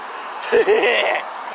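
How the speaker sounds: low chuckling cackle; giggling laugh. Real, not acted. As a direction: laugh it off madly. Laughs at being called insane.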